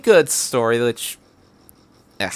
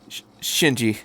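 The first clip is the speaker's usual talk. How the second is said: stammer. Acted. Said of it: "Shinji swallowed".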